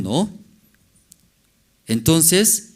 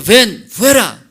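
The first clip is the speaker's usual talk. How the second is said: "Ven fuera" shouted high and stretched out; slow commanding shout; 8 semitones higher, 11 dB louder, slower than usual. Acted. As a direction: call him out of the tomb, slowly. Preacher voices Jesus calling Lazarus. (grito lento y agudo de mando)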